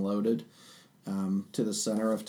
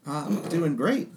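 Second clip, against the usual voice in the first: Tabaxi festival-goer; 7 semitones higher than usual. Acted. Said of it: "to your party and says".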